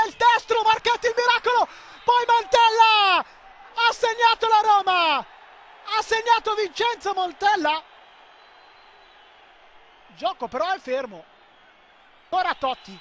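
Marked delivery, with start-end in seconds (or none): 0.1-7.8 goal call. Real, not acted. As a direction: hold the scorer's name out long.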